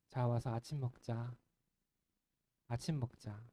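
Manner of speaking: soft, gentle invitation to breakfast; lovingly inviting the ashamed disciples to eat; loving call. A narrator's reading. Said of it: "이렇게 그들을 사랑으로 부르십니다".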